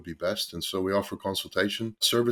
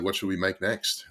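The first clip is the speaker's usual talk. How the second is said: lightly imitating an eager school kid; a hint of childlike eagerness; excited school kid. Partner asking what to make next, mildly imitated excitement. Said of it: "excited school kid".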